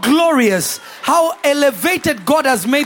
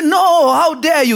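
louder, higher scoffing outrage; mock indignation; 3 semitones higher, 4 dB louder than usual. Mourners scoffing at Jesus, mock indignant and louder. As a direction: play the offended mourners, a touch hammed-up.

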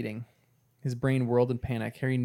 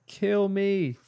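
higher, read-aloud yell with a change of voice; 8 semitones higher than usual. A narrator's reading. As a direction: lift the pitch high on the yell. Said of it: "he yelled".

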